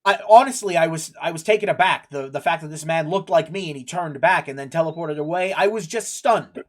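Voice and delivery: lightly voiced underling making excuses; a hint of a cornered guard explaining himself; flustered subordinate guard. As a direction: start loud and hasty, apologizing to the boss. Game master plays flustered guard.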